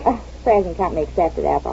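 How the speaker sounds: soft, hurried and embarrassed; flustered backpedal. Acted. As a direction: rush to cover the blunder. Blunder, friend takes fright.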